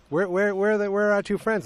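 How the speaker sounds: acted puzzled asking. Group at breakfast asking about missing friends, hesitantly puzzled. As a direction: imitate a hesitant, high-pitched inquiry.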